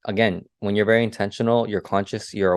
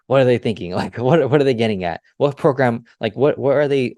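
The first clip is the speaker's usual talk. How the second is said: fired up; 3 semitones higher, 4 dB louder than usual. Retold or imitated. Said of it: "I'm, like, getting fired up".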